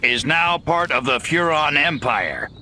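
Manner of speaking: booming announcement to the humans; loud alien proclamation. Acted. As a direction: proclaim it like a conqueror over loudspeakers. Alien broadcasting to Earth creatures.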